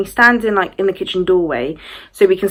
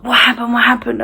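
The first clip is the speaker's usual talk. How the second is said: higher, urgent repeated question; alarmed questioning; 4 semitones higher than usual. Retold or imitated. Mum and stepdad jump up, higher alarmed questions. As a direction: imitate worried parents asking, pitched up. Parents startled by her screaming.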